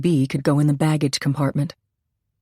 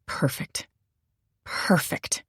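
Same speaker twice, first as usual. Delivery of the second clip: whispered; 8 dB quieter, slower than usual. Acted. Pleased murmur over finished tape.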